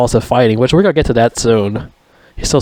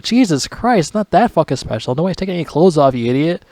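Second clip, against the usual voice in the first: higher, fast, scolding the screen; exasperated rant; 6 semitones higher than usual. Retold or imitated. Vlogger scolds movie hero, exasperated and high. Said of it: "I'm like".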